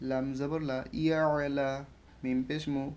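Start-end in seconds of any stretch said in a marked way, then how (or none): 1.0-1.7 ইয়া আলা with the middle a from the throat; throaty ain. Shown as a demonstration. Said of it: "আটাকে গলার মধ্যে নিতে হবে". (ইয়া আলা, আ গলা থেকে)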